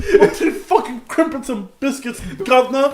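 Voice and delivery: hammed-up Cockney accent; mock Cockney. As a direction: drag it out like a stage Londoner. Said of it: "Cockney person".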